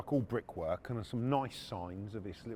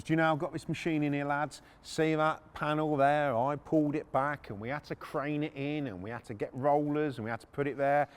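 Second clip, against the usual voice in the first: higher-pitched, boastful mock taunt; goading, showing off to the lads; cocky mockery; 4 semitones higher than usual. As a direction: imitate a cocky owner taking the piss. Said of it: "he's just taking the piss out of us".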